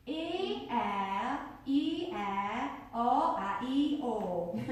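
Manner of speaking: tongue twister sung as bare vowels E, air, E, air, O, A, E, O; vowels only. Shown as a demonstration. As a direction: drop every consonant and keep only the vowels. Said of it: "Let me do it first".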